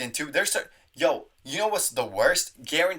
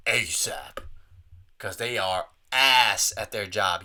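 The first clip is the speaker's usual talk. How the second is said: low unvoiced whisper; whispered aside; 4 semitones lower, slower than usual. Real, not acted. Wanting the receptionist fired, whispered. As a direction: whisper asap.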